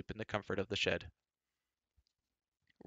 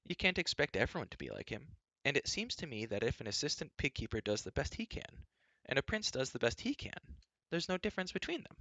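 high voice, climbing toward the end; princess arguing; 6 semitones higher than usual. A narrator's reading. Princess argues back.

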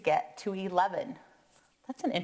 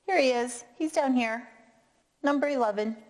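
higher, excited find; pleased discovery; 5 semitones higher, faster than usual. Acted. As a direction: point him out with delight. Finding the hidden eleven.

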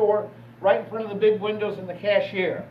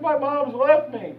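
put-on crying child; 4 semitones higher, slower than usual. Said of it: "I'm just bawling my eyes out".

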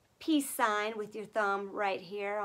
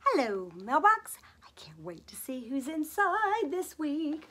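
whisper; 3 semitones higher than usual. Pretend. Whispering to the mailbox.

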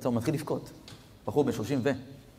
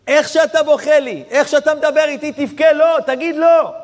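loud, much higher fervent exhortation; passionate urging; 13 semitones higher, 9 dB louder than usual. Retold or imitated. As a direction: shout at him to pour it out to God. Rabbi urging the crying man. (הפצרה נלהבת בקול רם)

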